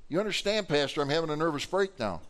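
imitating an upset churchgoer; distraught woman. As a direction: plead your case to the pastor. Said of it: "She's like".

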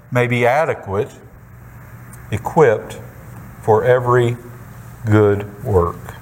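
measured, deliberate Bible reading; scripture reading. Acted. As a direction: read scripture aloud, pausing between listed items. Reads scripture aloud to congregation.

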